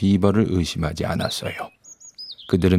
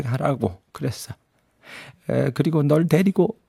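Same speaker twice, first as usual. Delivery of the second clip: beaver; 4 semitones higher than usual. Acted. Beaver explains about Tumnus.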